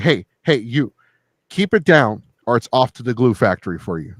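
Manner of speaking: calling out threat. Retold or imitated. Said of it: "I'm like".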